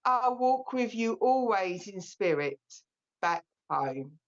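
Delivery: slow, gentle poem recital with long pauses; poem reading. Acted. Medium reads a comfort poem to her audience, slow and gentle. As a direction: read it slowly to grieving listeners.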